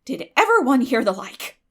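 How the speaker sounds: loud, astonished outburst; amazed exclamation. A narrator's reading. Marilla astonished at Anne's ghost stories, loud outcry. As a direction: throw up your hands in disbelief. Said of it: "ejaculated Marilla".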